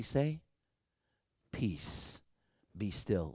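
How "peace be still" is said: hushed command. Acted. Jesus' words said softly.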